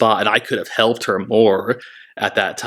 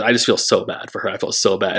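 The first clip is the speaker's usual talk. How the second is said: choked up; faster than usual. Real, not acted. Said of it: "I'm getting a little choked up".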